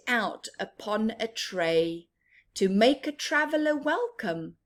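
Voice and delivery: slow, lilting storybook verse; sing-song picture book reading; reading a rhyme aloud. Acted. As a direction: savour each line for the children. Reading rhyming verse to children.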